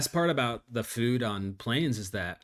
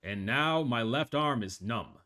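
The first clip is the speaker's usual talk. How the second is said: calm pilot reporting his own collapse; deadpan captain dying over intercom; pilot cockpit headset. Acted.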